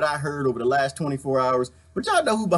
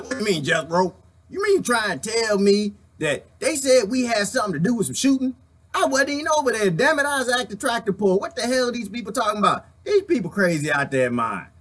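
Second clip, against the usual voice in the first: hillbilly voice; 5 semitones higher than usual. Acted. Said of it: "so I act a fool".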